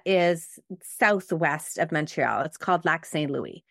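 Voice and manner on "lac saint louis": French-accented Lac Saint Louis; French pronunciation, silent final s. Real, not acted. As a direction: say the lake's name the French way. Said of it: "saying it with a French accent".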